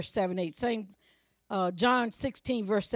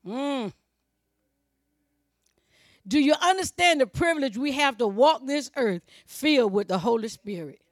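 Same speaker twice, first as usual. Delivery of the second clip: normal talking voice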